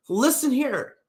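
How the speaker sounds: high mock scolding, "Listen here" drawn out; stretched words. White person telling off a meanie, high stretched mock scolding. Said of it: "Always stretch your words".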